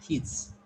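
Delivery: "his" with a brief ih vowel; short E. Shown as a demonstration. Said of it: "it is short E".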